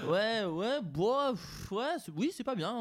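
awkward, forced laughing agreement. Retold or imitated. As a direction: laugh it off uncomfortably. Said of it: "avec le faux rire, le rire jaune".

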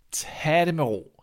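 slow it down, quite unimpressed; unbothered. Acted. Boy answering the old man's threat, unbothered.

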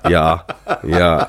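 lightly put-on German "ja"; slightly low, German-style yeses, spaced out; mock German accent. Father taking orders from German customers, mock German accent. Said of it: "he'd have German people come in".

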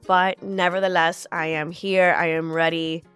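stuffy nose from a cold, blocked nose. Real, not acted. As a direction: talk through a blocked nose, under the weather. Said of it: "I sound like someone's holding my nose".

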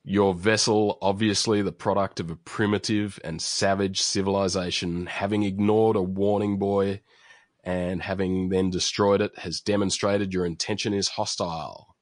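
loud, grand cartoon announcer; booming announcer voice. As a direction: boom it out like a cartoon narrator. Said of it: "we get a booming voice saying".

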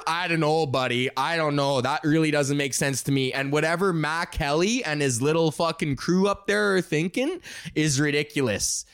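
lightly voiced hockey bro arguing; a hint of hockey-guy rant; hockey talk. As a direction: grumble stats like a hockey fan. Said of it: "what hockey talk sounds like".

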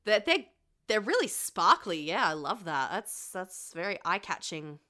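put-on Australian accent. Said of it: "I've somehow gotten more Australian".

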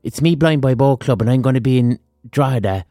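put-on Blind Boy radio ad. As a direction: announce the gig like a radio spot. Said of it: "That's my Blind Boy impression".

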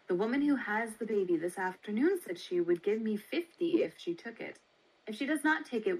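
lightly voiced brisk baby seller, quick; a hint of a brisk matron, fast. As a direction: rattle it off like a businesslike matron.

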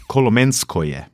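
Kolomenskoje pronounced the South Slavic way; Kolomenskoje, carefully sounded out as a South Slavic name; South Slavic pronunciation. Real, not acted. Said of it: "das ist jetzt meine südslawische Aussprache".

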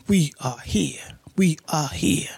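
breathy hushed whisper; whispered intro. Acted. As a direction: whisper it like a secret welcome. Podcast opening whisper.

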